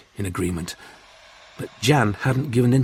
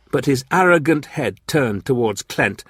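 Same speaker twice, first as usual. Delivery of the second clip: ordinary delivery, nothing marked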